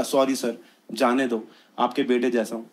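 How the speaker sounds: soft, low sheepish plea; meek pleading. Retold or imitated. Teen begging the policeman to let him go, soft meek plea. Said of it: "मैंने बोला".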